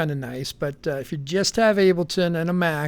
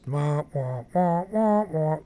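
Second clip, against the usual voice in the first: imitating a cheesy synth; slower than usual. Shown as a demonstration. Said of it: "like some real cheesy melody thing".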